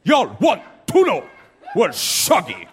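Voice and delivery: drawn-out bad Jamaican accent, playing to the crowd. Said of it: "I gotta do a Jamaican accent".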